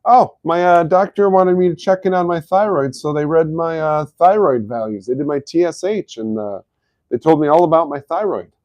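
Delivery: high, loud imitation of a chatty client; imitated client. Client telling about a thyroid check, imitated high and loud. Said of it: "Too many people coming in".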